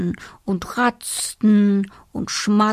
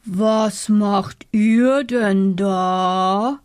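slow bear voice; much slower than usual. Acted. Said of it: "fragte der Bär".

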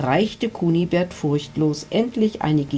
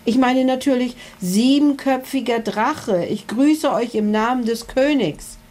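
higher, eager call from the knight; 7 semitones higher than usual. A narrator's reading. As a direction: knight hastily corrects himself and calls out. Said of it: "rief Ritter Kunibert".

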